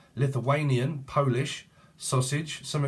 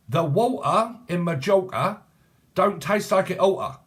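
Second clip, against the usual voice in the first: mock elocution voice; 5 semitones higher, 4 dB louder than usual. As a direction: ham up an elocution lesson, dragging each word. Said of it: "Listen, this is how you speak".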